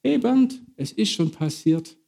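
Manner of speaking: the Spirit gently nudging Bernd; Holy Spirit speaking. Retold or imitated. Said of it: "der Geist Gottes mir jetzt sagt".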